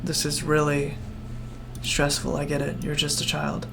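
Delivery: soft, hushed and kind; calm the stressed child with quiet patience; gentle reassurance. Acted. Duros telling the upset child to take time, hushed and kind. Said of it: "Duros says".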